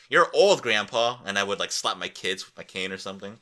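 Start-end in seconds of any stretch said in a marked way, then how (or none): 0.1-1.2 mock taunt. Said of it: "they'll be like".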